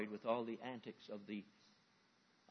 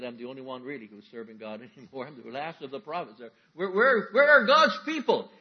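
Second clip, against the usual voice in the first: Elijah lamenting; 12 dB louder than usual. Acted. Elijah voiced in sermon.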